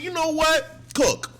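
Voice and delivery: high, excited egging-on; high hype cheer. Retold or imitated. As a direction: cheer her on from the couch. Hyping up a TV character.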